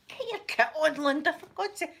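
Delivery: high, loud hurry-up to herself; urgent self-talk. Retold or imitated. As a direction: chivvy yourself to get dressed. Urging herself in her head.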